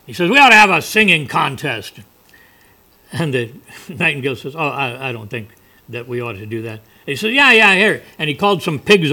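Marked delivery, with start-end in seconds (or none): 0.3-2.0 lightly voiced pushy crow, louder; a touch of cocky fable bird; challenging crow. 4.6-6.8 soft, lower, hesitant reply; lightly voiced unsure little bird; reluctant nightingale. Timid nightingale answers the crow. 7.3-8.0 loud, higher, dismissive crow; brash fable bird taking charge; pushy crow. Acted. Crow brushes off the nightingale.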